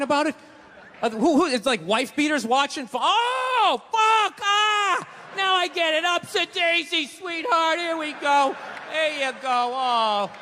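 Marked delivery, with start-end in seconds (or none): 3.0-10.3 gasp, then coo like it finally clicked; mock dawning realization. Wife beater having a revelation.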